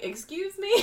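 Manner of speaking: high-pitched mock affront; comic indignant question; offended. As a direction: act insulted in disbelief. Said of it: "imagine how offended you would feel".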